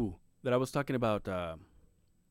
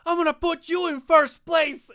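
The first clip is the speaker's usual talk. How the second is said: put-on high, loud and slow, a kid sucking up; mock sweet promise; 10 dB louder than usual. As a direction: stretch it out high like buttering up mom. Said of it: "my reaction then was".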